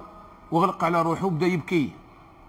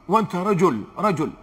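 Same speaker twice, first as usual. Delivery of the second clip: emphatic rebuke; 4 dB louder than usual. Real, not acted. Preacher rebukes young men.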